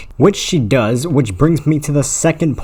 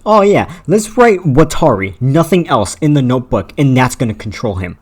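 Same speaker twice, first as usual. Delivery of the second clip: dumb movie directors. Acted. Mocking movie directors' lazy plan, in a lightly dim voice. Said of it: "these dumbass movie directors think".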